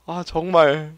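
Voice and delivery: ordinary delivery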